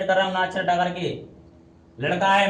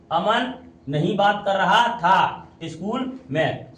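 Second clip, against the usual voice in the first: slow literal word order; slower than usual. Shown as a demonstration. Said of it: "शुद्ध कर लो".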